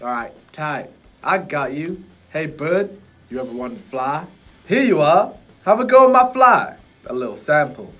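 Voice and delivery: chill, offhand genie offering a ride; relaxed street-wise genie, hushed; lightly voiced cool guru. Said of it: "Dude, you sound so cool".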